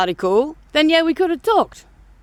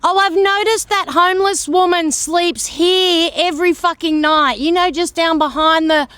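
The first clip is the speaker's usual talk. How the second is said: mocking Facebook poster; 4 semitones higher, 4 dB louder than usual. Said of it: "Facebook is full of assholes".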